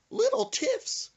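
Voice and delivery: very high, slow disbelief; incredulous. Retold or imitated. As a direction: stretch out the words in shock. Incredulous retort repeated.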